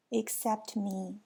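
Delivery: slow, mildly sorrowful. Acted. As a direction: say it slowly as a touch of grief. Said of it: "he said, and he started to cry".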